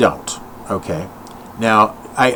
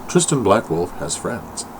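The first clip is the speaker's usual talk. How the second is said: slow, lower mock-dramatic announcement; mock announcer; 5 semitones lower, 6 dB quieter, slower than usual. To his viewers, a slow mock-dramatic announcement. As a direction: announce it like breaking news, slowly.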